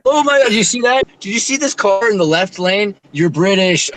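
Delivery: guard mocking a British driver, high and shocked; mock excited officer. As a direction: ham up the shocked officer spotting a Brit. Mocking Spanish officers about Brits.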